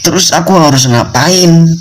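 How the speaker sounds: high, pleading voice of a lost student; voicing a broke student begging for a way out; desperate student. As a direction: plead as if at your wits' end. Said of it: "kata si mahasiswa ini".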